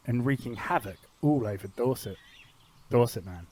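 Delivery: measured storybook narration with dramatic pauses; narrator voice. Acted. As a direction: set the scene like an adventure serial narrator. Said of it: "do my narrator voice nicely".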